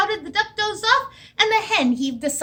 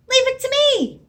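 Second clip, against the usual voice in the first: horse voice; 12 semitones higher, 5 dB louder than usual. Acted. Horse character voice.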